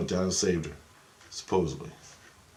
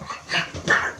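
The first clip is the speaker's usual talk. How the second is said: imitated head noise. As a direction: burst of rough, voiceless rattling noise. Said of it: "like that".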